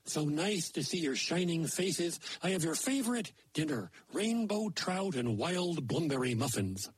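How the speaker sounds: a lightly voiced moose telling a fairy tale; folksy moose storyteller. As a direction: tell it like a folksy old moose. Maynard Moose tells a folk tale.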